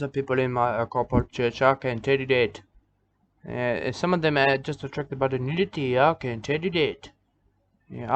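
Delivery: rambling preacher in a thick, halting put-on accent; lightly hammed-up preacher character; broken-English nudist preacher. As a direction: ramble like a simple backwoods preacher, mate.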